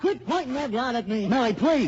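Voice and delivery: frightened pleading. Acted. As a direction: plead for your life. Man begging woman holding gun.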